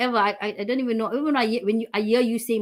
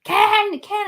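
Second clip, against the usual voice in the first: high, louder call across the house; 9 semitones higher, 4 dB louder, slower than usual. Retold or imitated. Wife calling her husband from another room, loud call. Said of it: "I'll be screaming".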